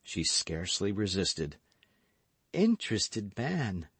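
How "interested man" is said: smiling reproach. Acted. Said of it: "cried she, smiling".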